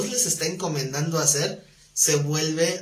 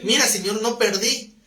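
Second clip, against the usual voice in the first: higher-pitched, pleased report to the master; imitating a contented servant; 5 semitones higher than usual. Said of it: "él está contento de decir".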